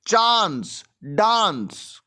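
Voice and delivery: चांस and डांस with matching long "aan"; चांस, pause, डांस, each as a separate example; rhyme demonstration. Shown as a demonstration. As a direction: set चांस apart from डांस so the rhyme shows. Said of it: "rhyming का मतलब होता है".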